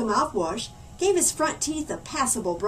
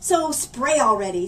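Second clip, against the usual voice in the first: sputtering impatience; 3 dB louder than usual. Acted. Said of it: "sputtered Oliver".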